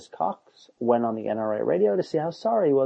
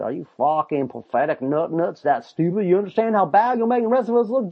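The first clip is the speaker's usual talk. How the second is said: mock exasperated rant; 4 semitones higher, 5 dB louder than usual. Imagined exasperated rebuke.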